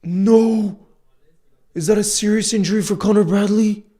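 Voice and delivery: high, loud cry of disbelief; dismayed cry. Real, not acted. Fan seeing his player go down, crying out high and loud. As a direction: shout out in shock at the injury. Fan sees teammate injured.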